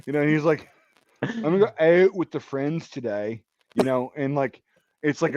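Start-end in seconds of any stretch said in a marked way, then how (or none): 1.2-3.4 lightly imitated Baltimore accent. Imitating a friend's Baltimore accent, a light Baltimore accent. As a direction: put on a touch of Baltimore accent. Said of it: "Baltimore accent".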